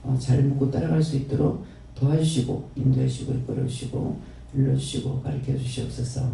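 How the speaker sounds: earnest, steady prayer voice addressed to the Father; closing prayer. Acted. Pastor closing the sermon in prayer to the Father, reverent prayer. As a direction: pray it reverently and evenly.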